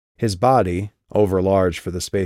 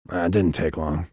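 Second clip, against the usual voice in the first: flat and harsh; 2 semitones lower than usual. Acted. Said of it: "his voice flat and harsh".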